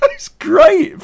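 giggling helplessly; laughing. Real, not acted. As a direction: laugh as you try to talk. Laughing after mimicking the noise.

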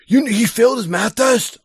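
wife's alarmed cry, voice jumping up. Retold or imitated. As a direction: replay the wife bursting out, high and alarmed. Wife roaring out of house.

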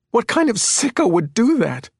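high-pitched outraged question; appalled outrage. A narrator's reading. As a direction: demand it, appalled and upset. Appalled mother reacts to hackers.

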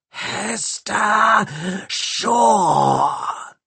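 very high, grating cyborg screech of her name; metallic screech. A narrator's reading. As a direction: screech it like a saw cutting metal. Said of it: "screeched a voice, like a saw cutting metal".

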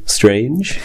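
blocked-nose nasal voice from a cold. Real, not acted. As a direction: talk through a stuffy nose. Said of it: "ちょっと鼻声".

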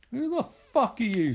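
sharp, high yelling challenge; angry heckle. Retold or imitated. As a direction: snap it at the stranger on stage. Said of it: "says Tim".

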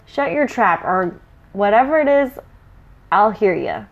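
rough troll snapping back. Acted. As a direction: growl it like a brutish troll. Troll snaps at other troll.

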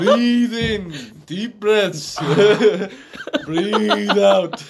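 laughing. Real, not acted. Calming a laughing friend.

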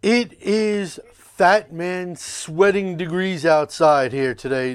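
grand announcer. Acted. Host's grand opening to show.

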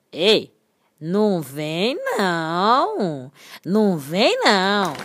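slow, low drawn-out cloud warning; cloud's voice. Acted. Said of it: "Uma nuvem disse pra outra assim". (voz de nuvem)

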